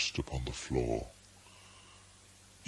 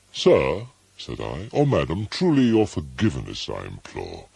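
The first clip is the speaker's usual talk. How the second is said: loud plea through the door; 2 semitones higher, 6 dB louder, faster than usual. Acted. Narrator calling through the chamber door to the visitor, loud and hurried. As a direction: call out loudly, pleading, then hurried. Speaker calls to unseen visitor.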